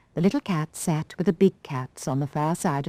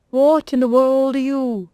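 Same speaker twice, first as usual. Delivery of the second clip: higher, puzzled great owl; 8 semitones higher, 4 dB louder than usual. Acted. Owl on the chimney stares at the doll, puzzled. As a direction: peer down at a strange thing. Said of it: "it asked".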